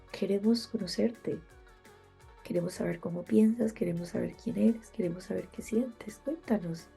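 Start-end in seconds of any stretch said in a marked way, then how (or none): 2.4-6.9 stuffed-up nasal voice; blocked nose. Real, not acted. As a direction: talk through a blocked nose. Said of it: "voz de nariz tapada". (voz de nariz tapada)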